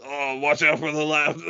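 lightly Australian call-out; cheeky Aussie tip; Aussie warning. Retold or imitated. Captain Smash on team chat, light Australian. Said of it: "this fucking guy just".

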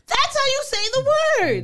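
playful Long Island accent. Real, not acted. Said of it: "That's just my Long Island accent".

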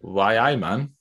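half-hearted attempt at a Geordie accent. Shown as a demonstration. Reluctant host told to do any accent, attempted Geordie. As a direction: try a Newcastle catchphrase in Geordie. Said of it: "That was Geordie".

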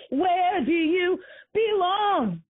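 drawn out, mocking the question; slow, scornful where do you belong; slow mocking repeat. Shown as a demonstration. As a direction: stretch each word with scorn. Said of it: "repeated after laugh, slow".

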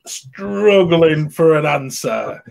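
very slow, stretched-out words; drawn-out struggling. Retold or imitated. Describing a cast member stumped by a child's question, drawn out. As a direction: drag it out as if straining for words.

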